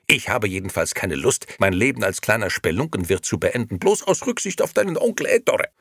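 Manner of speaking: loud, high, heated tirade; shouting. A narrator's reading. Nino pleads his ambitions to his wife, shouting. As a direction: argue at full voice. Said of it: "schrie Nino".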